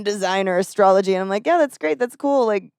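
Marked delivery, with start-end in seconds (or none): 1.5-2.5 fake enthusiasm. Humoring boyfriend's astrology talk.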